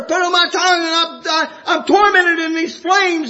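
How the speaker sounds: a rising, pleading cry from the flames; tormented plea. Acted. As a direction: beg for water in torment, building to a shout. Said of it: "he says".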